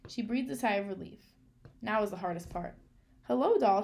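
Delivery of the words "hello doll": bright, loud, high greeting; loud cheerful hello to a doll; brightly. Acted. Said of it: "she said brightly".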